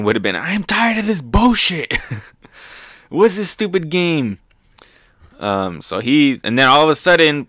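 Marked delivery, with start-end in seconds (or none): 0.4-4.4 the swearing version, hammed up; uncensored Zoro. Zoro's uncensored take as he quits the game, higher with a laugh. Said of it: "the not so G-rated version".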